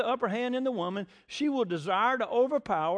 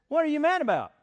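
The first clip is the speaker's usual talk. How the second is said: higher, louder put-on exasperation; indignant bafflement; 8 semitones higher, 5 dB louder, faster than usual. Man acting out his answer to the mad woman, exasperated. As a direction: play the baffled man, pitched up and loud.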